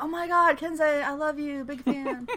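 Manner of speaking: high, gushing fanboy; starstruck fan. Retold or imitated. Hiro meeting his idol, high starstruck gushing. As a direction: gush at your hero at Comic-Con. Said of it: "Hiro's like".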